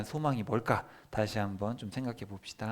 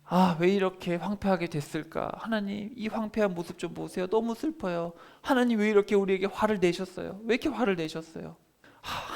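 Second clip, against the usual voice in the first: lamenting prayer; 4 semitones higher than usual. Retold or imitated. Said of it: "무슨 얘기를 하냐면은".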